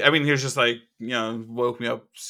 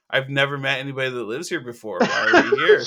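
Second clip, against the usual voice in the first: baffled laughing squeak; 2 semitones higher, 5 dB louder than usual. Retold or imitated. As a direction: rise into a laughing, disbelieving cry. Confused kid, rising to laughing squeak.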